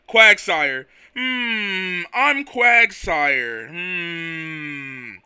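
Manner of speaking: slow, drawn-out sleepy creature voice; a lightly voiced slow dopey Quagsire. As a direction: drag each word out lazily. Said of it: "a really slow voice".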